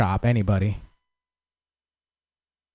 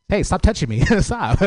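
high, playful acted giggle; coy giggling protest; 6 semitones higher than usual. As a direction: protest flirtatiously through little laughs. Coy giggling at imagined admirer.

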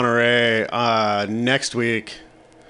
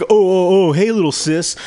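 raised, louder retold taunt; mock accusation; 6 semitones higher, 5 dB louder than usual. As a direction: throw the nickname back at the brother. Acted confrontation with the brother.

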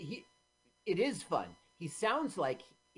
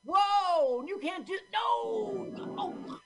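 high-pitched shrieked protest; mock alarm; 3 dB louder, much slower than usual. Reacting to the film stunt, shrieking in mock alarm. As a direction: cry out in exaggerated horror.

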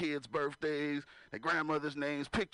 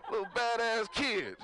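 laughing; 4 semitones higher, slower than usual. Real, not acted. Laughing over the kid.

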